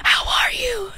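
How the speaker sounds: high, laughing hello; laughing greeting. Retold or imitated. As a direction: sing out a laughing hi sweetheart.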